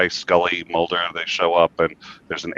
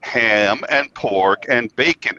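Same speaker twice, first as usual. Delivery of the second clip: high, loud dopey Homer; Homer impression; 6 semitones higher, 4 dB louder than usual. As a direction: play Homer gushing, rising high. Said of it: "He's like".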